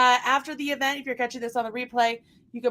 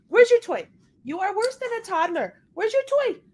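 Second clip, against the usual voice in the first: much higher, coaxing the dog; high pet voice; 8 semitones higher than usual. Real, not acted.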